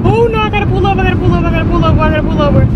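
high frantic rush of words; high fast panic while pulling the car over; panicked. Real, not acted.

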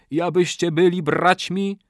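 high, loud proclamation; ritual incantation. A narrator's reading. Old man declares them brothers, loud incantation. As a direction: call out the oath. Officiant calls out oath.

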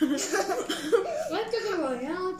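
slow, laughing question. Real, not acted. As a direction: ask it through a laugh. Laughing question mid-meal.

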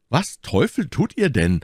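high-pitched, startled question; startled challenge. A narrator's reading. D'Artagnan questions his friend's risky move, startled challenge. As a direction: challenge him, pitched well up.

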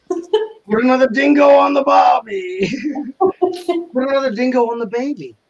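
giggling through a mangled saying; cracking up at her own joke; laughing. Real, not acted. Laughing while mixing up Australian sayings for the stream.

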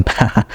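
brief, soft chuckle; a quiet laugh to oneself; short laugh. Real, not acted. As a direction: let out a small, real chuckle. Laughs after announcing the resignation.

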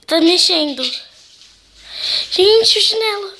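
high, loud frightened cries; panicked yell. Real, not acted. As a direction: shout it in terror. Slipper moves, panicked yelling.

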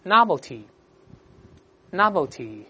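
slow, deliberate word drill; read-aloud model. Shown as a demonstration. Teacher leading students through a new word, read-aloud model. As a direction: pronounce it slowly for repeating, pausing between takes. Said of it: "再读一下".

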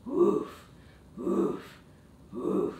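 short playful woofs; puppy bark. Pretend. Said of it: "Let me hear your bark".

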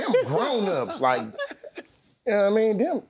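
slow, laughing repeat; laughing it out while retelling the story. Real, not acted. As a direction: let the laugh carry it slowly.

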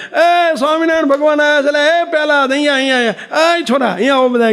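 put-on calling the children over, thrilled at a vision; excited exclamation. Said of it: "હુતાતા ને બોલ્યા". (ઉત્સાહથી ઊંચા સાદે પોકાર)

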